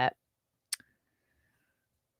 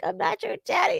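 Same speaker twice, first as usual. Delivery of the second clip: gruff denial; 13 semitones higher than usual. Retold or imitated. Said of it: "and he's like".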